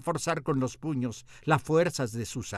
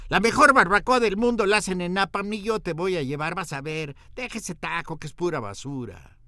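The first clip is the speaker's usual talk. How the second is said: louder, higher, scoffing know-it-all; a hint of a boastful local diner; 5 semitones higher, 5 dB louder than usual. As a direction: talk the narrator down like an expert. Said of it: "escuché la voz".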